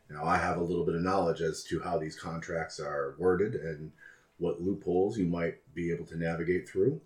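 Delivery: polite, measured fixer voice; smooth courteous schemer. Acted. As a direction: speak like a sly, courteous broker. Alistair speaks in character.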